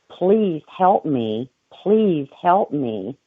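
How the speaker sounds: slow, desperate begging; pleading. Retold or imitated. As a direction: beg slowly for help. Begging at church.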